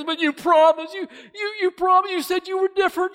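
high, loud betrayed cry; dying young man crying out at the snake; anguished shout. Acted. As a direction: scream it as the poison takes him.

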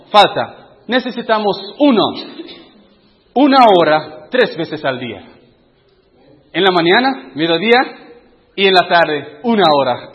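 eager demand. Retold or imitated. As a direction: insist loudly that one hour is needed. People demanding more time. (exigencia insistente y más fuerte)

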